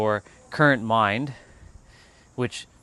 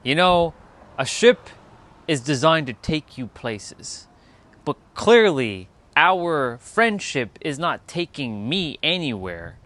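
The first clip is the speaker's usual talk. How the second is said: mock breakup speech; 3 semitones higher, 5 dB louder, slower than usual. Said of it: "I'm gonna use that when someone comes".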